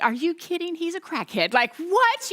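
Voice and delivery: retold exasperated disbelief; mock incredulous. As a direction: act out a baffled objection, rising on the last word. Acts out her urge to object.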